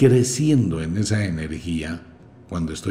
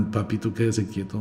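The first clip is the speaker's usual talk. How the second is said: softer, hushed plea to sit still; embarrassed hush; 5 dB quieter than usual. Retold or imitated. Mother hushing her son in a doctor's office, embarrassed and soft. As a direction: say "Papito, quédese quieto" quietly, ashamed. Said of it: "la mamá toda avergonzada".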